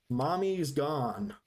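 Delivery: slow, lightly voiced father bear; a hint of a resigned papa bear. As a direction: break it to the cubs slowly, word by word. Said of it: "Papa Bear has to look at them and go".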